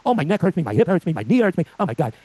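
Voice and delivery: a hint of a whiny patient listing aches; complaining patient. Doctor imitating a kvetching patient to the class, mildly whiny. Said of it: "we call them kvetches".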